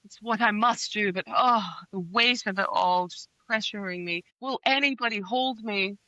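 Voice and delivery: lightly hammed-up tortured sigh; mock the hero's self-pity with sighs and pauses; mocking brooding hero. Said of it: "he takes it upon himself to be like".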